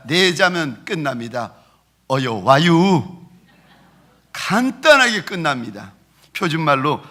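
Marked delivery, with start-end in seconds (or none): 2.1-3.3 slow, drawn-out Chungcheong drawl; slow Chungcheong dialect. Retold or imitated. Pastor mimics Chungcheong greeting to congregation, slow Chungcheong drawl. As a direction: stretch it out lazily in a Chungcheong accent. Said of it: "충청도 말은 길지 않습니다".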